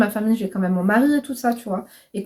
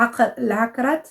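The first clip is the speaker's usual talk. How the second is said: halting French-accented try at Arabic "hakarat"; clumsy Arabic accent. Real, not acted. Vlogger attempting an Arabic prayer word, clumsy Arabic accent. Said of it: "mon accent arabe, il est ridicule".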